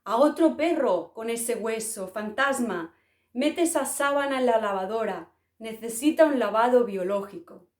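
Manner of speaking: mocking shout. A small Bortian jeering at the sheet-waving ghost, mild mock yell. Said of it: "le gritaba".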